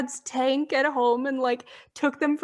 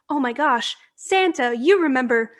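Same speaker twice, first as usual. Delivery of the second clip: chirpy scripted Mrs Claus; 4 dB louder than usual. Retold or imitated. Mrs Claus reciting her script to Santa, sugary and loud. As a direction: gush to Santa like a theme-park helper. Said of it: "this script to follow".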